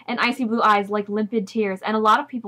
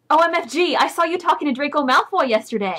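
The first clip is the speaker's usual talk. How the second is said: higher-pitched mock teen excitement; excited; 6 semitones higher than usual. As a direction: gush like a gossiping teen. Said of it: "she said excitedly".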